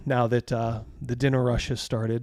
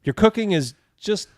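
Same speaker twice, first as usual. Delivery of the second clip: firm telling-off; 2 semitones higher, 6 dB louder than usual. Acted. Husband firing the rude cook, loud scolding. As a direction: put him in his place, loud.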